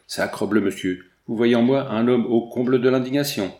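hammed-up indignant outburst; indignant exclamation. Moustached stranger crying out his indignation to Anatole, mildly loud. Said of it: "il s'écria".

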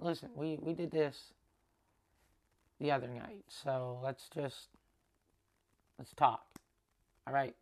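low, soft, unhurried approach; calm, measured. Retold or imitated. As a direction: ease gently into a talk, pausing between phrases. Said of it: "how I said".

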